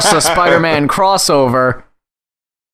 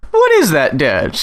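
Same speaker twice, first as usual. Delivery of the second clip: confused executive; 4 semitones lower than usual. Retold or imitated. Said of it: "and you're like".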